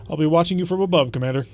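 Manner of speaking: a hammed-up German accent, stiff and formal; bad German accent. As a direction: read the noble's summons in a bad German accent. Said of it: "just explaining the bad German accent".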